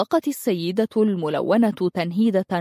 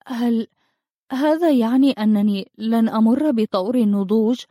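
ordinary delivery

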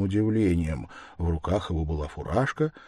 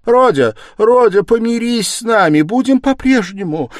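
very high, loud motherly plea; desperate high-pitched exclamation; pleading cry; 13 dB louder than usual. A narrator's reading. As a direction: cry out, begging for peace. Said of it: "воскликнула бедная мать".

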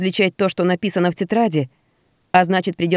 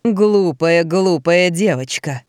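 luring spirit whisper; much slower than usual. Acted. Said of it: "произнёс вкрадчивый голос".

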